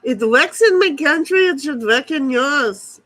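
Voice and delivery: almost an Indian accent, half Simpsons, put on; near-Indian accent. Streamer joking to chat, near-Indian accent. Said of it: "almost an Indian accent there".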